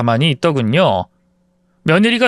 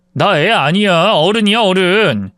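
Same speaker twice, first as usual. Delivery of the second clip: irritated son; 3 semitones higher, slower than usual. Retold or imitated. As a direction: insist slowly that he is an adult. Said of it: "아들이 짜증을 심하게 내길래". (짜증 섞인 아들의 느린 항변)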